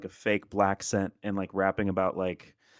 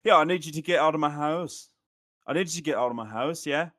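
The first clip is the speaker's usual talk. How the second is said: higher, louder hammed-up Scottish accent; mock Scottish accent; 5 semitones higher, 3 dB louder than usual. Mocking how Scottish people talk, higher hammed-up Scottish accent. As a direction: do a cartoon Scottish accent, lilting each end. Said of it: "They'll be like".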